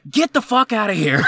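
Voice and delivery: high-pitched mock shout; retold yell. Manager yelling at customer from the ovens, high mock shout. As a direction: yell it in comic exasperation. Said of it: "I was just yelling at him".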